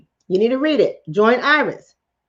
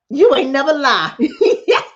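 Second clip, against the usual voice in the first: laughing; 3 semitones higher than usual. Real, not acted. Laughing agreement.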